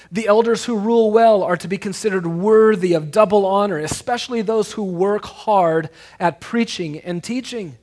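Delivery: loud proclamation slowing at the end; emphatic scripture reading. Acted. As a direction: preach the verse to the congregation. Reads scripture with force.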